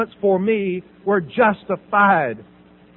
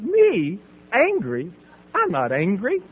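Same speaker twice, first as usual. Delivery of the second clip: feigned innocence with rising, questioning ends; sweet denial; slower than usual. Retold or imitated. Patient denying anger to the counselor, falsely sweet. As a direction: deny it through a pretty, forced smile. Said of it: "I smiled as pretty as I could".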